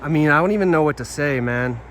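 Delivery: loud, fast, stunned; can't believe what he's reading; shocked disbelief. Real, not acted. Shocked reaction to tweets.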